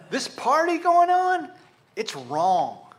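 high, loud note of disbelief; indignant disbelief. Acted. Preacher voices the offended brother's view, indignant disbelief. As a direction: raise it sharply, put out by it.

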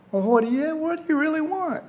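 high-pitched mock questioning; sarcastic. Shown as a demonstration. The people answering God back, sarcastic. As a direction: lift it high with put-on sarcasm. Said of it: "Or maybe they're sarcastic".

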